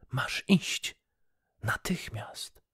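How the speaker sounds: bossy wife demanding he go now; imperious demand. Acted. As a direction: snap the command at the fisherman with no room to argue. Wife orders fisherman to go.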